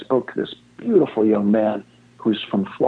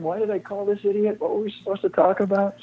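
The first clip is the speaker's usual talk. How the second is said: lightly mocking, higher self-doubting inner voice; a hint of the host's worried inner voice; imitating the host; 8 semitones higher, 4 dB quieter than usual. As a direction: play the regretful host thinking aloud. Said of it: "you're sitting there saying".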